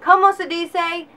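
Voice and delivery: a hint of a firm teacher pressing "Como se dice?"; insistent teacher. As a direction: push the student to say it in Spanish. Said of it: "She would say".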